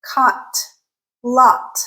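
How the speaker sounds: "caught" said like "cot", open unrounded ah. Shown as a demonstration. Teacher contrasting two vowels, open unrounded ah. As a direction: separate model words "caught, lot" with open ah. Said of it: "a clear distinction between".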